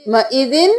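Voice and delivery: مئذن ending on a clear n; unconverted tanween. Shown as a demonstration. Teacher sounds out the word before correcting it, final n in مئذن. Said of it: "ہم زن نہیں کریں گے".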